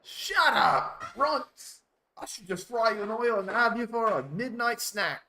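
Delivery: high, loud hammed-up fury; angry dolphin. Dolphin threatening the runts, hammed-up angry yell.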